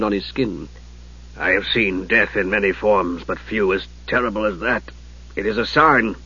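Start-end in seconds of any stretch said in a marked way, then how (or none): 1.4-6.2 shaken. Acted. Ariakan shaken by death.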